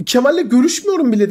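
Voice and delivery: high, heated mock protest; imitating flustered denial. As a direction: act caught out and rattled. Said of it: "bu kadar heyecanlandın, sinirlendin, bağırdın". (yüksek sesle, telaşlı taklit inkâr)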